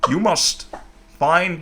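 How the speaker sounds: faint Alan Watts lilt; lightly voiced Alan Watts. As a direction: mildly intone like a recorded philosopher. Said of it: "he has a bit of a Obama cadence".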